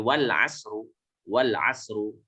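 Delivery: "wal asru" run straight from wa into the l, no alif sounded; silent alif. Shown as a demonstration. Teacher shows students a silent alif, "wal asru" joined straight through. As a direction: join "wal asru" without a glottal break before the l. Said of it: "alifnya tidak dibaca lagi".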